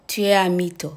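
tu es un mytho, slow, each syllable clear; slow French demo. Shown as a demonstration. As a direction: spell out tu es un mytho slowly for learners. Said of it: "ก็พูดว่า". (พูดช้าๆ ชัดๆ แบบสอนออกเสียง)

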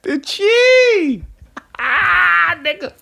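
high squeal of disbelief at the excuse; incredulous laughing shriek. Real, not acted. Friend squealing at the ridiculous excuse, laughing. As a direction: shriek it through laughter, can't believe it.

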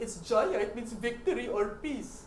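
lightly imitated Indian accent; retold explanation with a touch of Indian accent. Indian shop owner explains a name, light Indian accent. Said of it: "bukod nga pala sa mga Indian accent".

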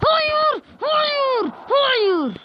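high, falling no; high wailing noes; repeated despairing no. Real, not acted. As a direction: moan it three times in disbelief. Another goal conceded.

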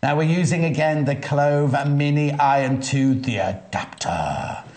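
slow, dramatic movie-trailer voice; drawn-out Hollywood announcer delivery. Acted. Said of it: "I was trying to do the Hollywood voice".

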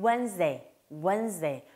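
"Wednesday" as two syllables, wenz-day; correct pronunciation. Shown as a demonstration. Teacher modelling for mothers, "Wednesday" said neatly as wenz-day. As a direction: say "Wednesday" with the d silent. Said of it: "정확한 발음은요".

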